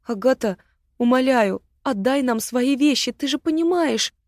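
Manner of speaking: pleading. Acted. Ирма begs Агата to save them, pleading rising high. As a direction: beg her to give up her things.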